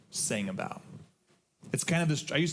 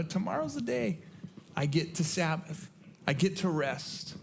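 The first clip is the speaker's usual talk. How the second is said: higher, happy and eager, easing down at the end; excited; 6 semitones higher than usual. Retold or imitated. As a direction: savour each word like a treat you can't wait for. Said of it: "You know".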